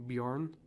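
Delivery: "Bjorn" with the J said as an English Y; "Bjorn" starting b-y, Scandinavian style. Shown as a demonstration. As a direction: say "Bjorn" as byorn, one syllable. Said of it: "J's mean a Y".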